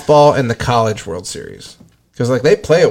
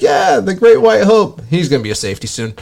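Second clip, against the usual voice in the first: imitating Chris Long; 6 semitones higher than usual. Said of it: "he was like".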